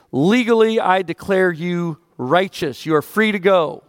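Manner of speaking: a hint of a solemn judge pronouncing sentence; judge's verdict. Preacher voicing God as judge declaring the guilty free. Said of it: "the judge looks down and he says".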